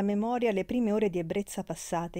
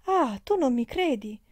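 higher, louder tearful question; crying harder; 6 semitones higher, 5 dB louder than usual. A narrator's reading. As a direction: wail the question as tears grow. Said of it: "piangendo più forte". (piangendo più forte)

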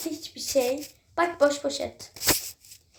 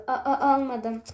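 hammed-up stutter on A-; mock stammer. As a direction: stutter guiltily, a- a- almadım. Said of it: "Bak kekeliyorsun". (sahte kekeleme)

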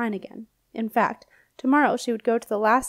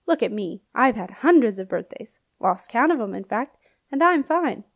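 put-on old knight ghost. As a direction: greet the princess like a jolly old soldier. Knight cheering her up.

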